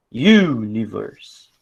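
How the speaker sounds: slow "Universe" with a long, strong U; stressed first syllable. Shown as a demonstration. Teacher finding the tonic syllable, "Universe" stressed on a long U. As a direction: lean on the opening U of "Universe". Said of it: "Eu sei até qual é a tônica".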